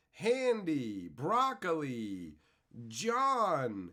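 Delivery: punchy announcer-style name calling; roll-call shout-out. Real, not acted. Streamer greeting viewers by name in chat, calling out.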